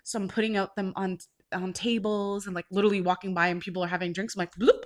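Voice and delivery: ordinary delivery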